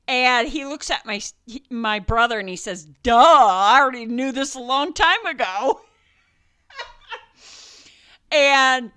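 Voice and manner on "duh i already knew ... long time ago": put-on smug kid. Little brother scoffing.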